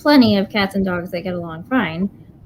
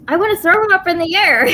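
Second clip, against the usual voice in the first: high eager dog voice; excited dog; 9 semitones higher, 4 dB louder than usual. Retold or imitated. Dog explains how he wants to play, high and eager. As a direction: bounce it up like a thrilled puppy. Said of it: "He goes".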